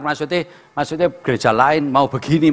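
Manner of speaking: usual speaking voice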